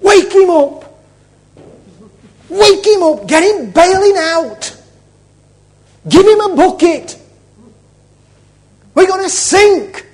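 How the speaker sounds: loud, high yells of alarm; acted frantic yelling, pitched high; panicked shouting. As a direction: shout urgent orders over a storm. Disciples panicking in the storm.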